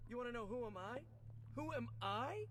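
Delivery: practicing a spooky superhero growl; spider voice. Acted. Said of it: "my spider voice".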